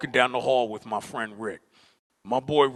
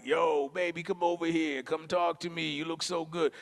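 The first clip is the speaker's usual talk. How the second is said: soft, higher catcall in a clear voice; imagined smooth flirting; 4 semitones higher, 5 dB quieter than usual. Retold or imitated. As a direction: call her over with an easy, pitched-up flirt. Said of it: "But his voice don't sound like that".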